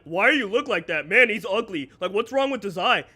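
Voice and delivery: loud, blunt mocking question; rude commenter. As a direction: sneer it out like a rude stranger. Quoting rude commenters about his eye.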